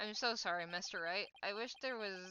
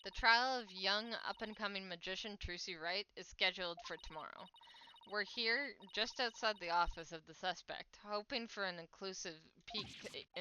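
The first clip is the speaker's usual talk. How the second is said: news report. Acted. TV reporter on live broadcast.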